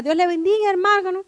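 imitating a sweetly polite phone greeting; lightly put-on, softened greeting to a church brother; husband's changed phone voice. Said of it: "contestó de una manera". (voz amable fingida al contestar el teléfono)

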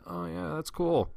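humoring a coworker's phone commercial; fake interest. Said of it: "pretend to be interested".

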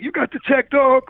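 high, cocky mock rapper line; high-pitched mock street rapper; Mad Rapper voice. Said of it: "the Mad Rapper".

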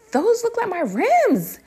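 very high, drawn-out suspicion; dawning suspicion. Retold or imitated. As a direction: pitch it way up, stretching the words. First telling boyfriend of suspicion.

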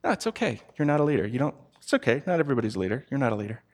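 mock soothing put-down; condescending. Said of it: "in a very kind of condescending way".

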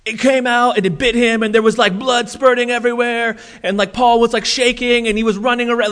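a hint of breathless gory storytelling, fast at the end; hammed-up excited account; mock dramatic retelling. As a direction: overhype it like a tabloid. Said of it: "where Luke's not like".

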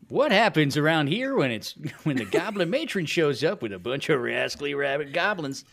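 lightly hammed-up reality show teaser; playful mock promo narration. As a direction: swoop up and down like a trailer tease.

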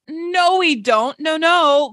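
high-pitched retold objection; mock indignant protest. Retold protest at tutor's claim.

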